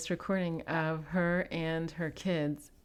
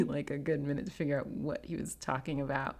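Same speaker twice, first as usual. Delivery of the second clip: ordinary delivery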